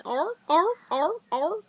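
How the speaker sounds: loud arr arr barks; loud mock seal barks. Shown as a demonstration. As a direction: bark like a seal. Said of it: "He says".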